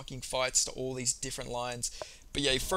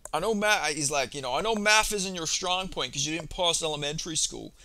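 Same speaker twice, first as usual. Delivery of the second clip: imitating an aggressive jab, building to a loud final insult; mock pissed-off taunt ending in a shout; retelling a pissed-off taunt with a loud last insult; 3 semitones higher, 3 dB louder than usual. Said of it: "He said it like that. He said it with so much aggression".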